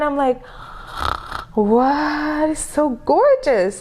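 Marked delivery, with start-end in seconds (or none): 1.5-3.8 slow, higher-pitched amazement; awestruck. Retold or imitated. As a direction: gush slowly in admiration. Awed reaction to seeing signing.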